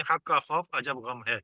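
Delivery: حق کا خوف عجب غم ہے drawn out slowly; آہستہ جملہ; slow mnemonic. Shown as a demonstration. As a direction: lay out each word of the phrase. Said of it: "اس کا آسان کر دیا ہم نے".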